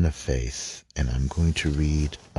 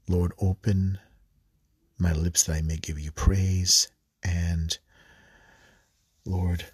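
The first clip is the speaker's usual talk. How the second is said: measured devotional prayer voice. Acted. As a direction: pray it aloud to open the session. Leads opening prayer before scripture.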